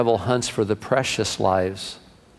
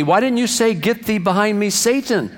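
higher-pitched, exasperated reproach; mock scolding husband; 6 semitones higher than usual. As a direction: play a husband lightly telling off his wife. Husband scolds wife in joke.

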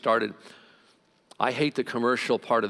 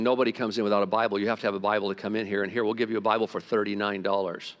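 fast, brisk mock doorman selling Bibles; 4 semitones lower, faster than usual. Mocking a greedy church usher at the door, fast and brisk. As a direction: rattle off the rules like a pushy usher. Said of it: "you come in the door here and going".

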